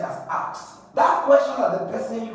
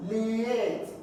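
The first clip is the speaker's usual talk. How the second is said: liate lifted and isolated; stressed syllable alone; 3 semitones higher than usual. Shown as a demonstration. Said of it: "So you stress what?".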